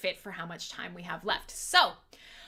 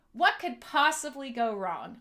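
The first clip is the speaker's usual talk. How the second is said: sarcastic. Real, not acted. Sarcastic refrain about glass railings.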